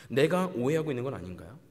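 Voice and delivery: usual speaking voice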